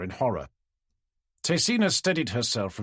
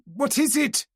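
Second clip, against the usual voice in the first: high and pressing; urgent yell; 12 semitones higher, slower than usual. A narrator's reading. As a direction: demand an answer now. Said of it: "yelled Kantara".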